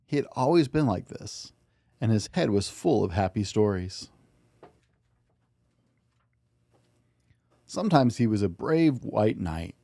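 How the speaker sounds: put-on gentle, even storybook narration for a child; bedtime story reading. A narrator's reading. Dad reading a bedtime story to his child, gently. Dad reads picture book aloud.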